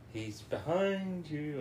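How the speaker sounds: slow drawn-out panto call; panto crowd callback. Retold or imitated. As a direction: sing it out like a pantomime. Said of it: "That panto".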